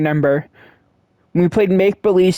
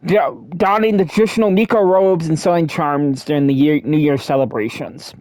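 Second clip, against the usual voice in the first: talking with a grape in mouth; mouth full. Real, not acted. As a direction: speak around a mouthful of grape. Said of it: "Sorry, I have a grape in my mouth".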